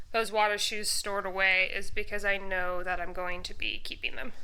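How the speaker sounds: short of breath after the stairs. Real, not acted. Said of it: "I'm gonna catch my breath".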